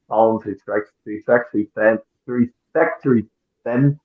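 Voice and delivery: stumbling over a set phrase; halting, repeated attempts to get it out; tongue-tied. Real, not acted. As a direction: trip over the words and keep retrying. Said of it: "I almost got that out there".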